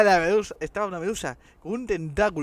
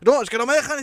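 mock woman complaining; 8 semitones higher, 7 dB louder than usual. Woman in video voiced.

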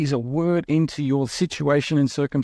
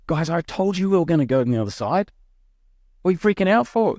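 half-laughing, why are you panicking; exasperated Jesus; 6 semitones higher, faster than usual. Retold or imitated.

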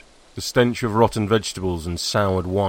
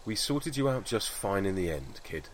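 soft and hushed, fondly to himself; a quiet, tender aside to the absent kid; softly reassuring the girl in memory; fond murmur; 10 dB quieter than usual. Acted.

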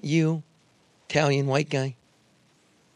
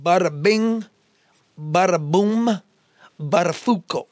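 lightly voiced Long Island wise guy; Long Island accent; 5 semitones higher than usual. Shown as a demonstration. Reciting his Long Island haiku, mock Long Island accent. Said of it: "you wanna hear my Long Island?".

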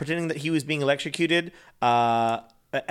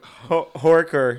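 slow mock Australian accent; attempted Australian accent; 5 dB louder, much slower than usual. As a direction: draw out a louder Aussie "horker". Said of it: "Do you know Australian people say".

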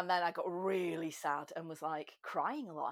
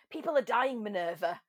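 mock scolding; 5 dB louder than usual. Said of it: "she just went".

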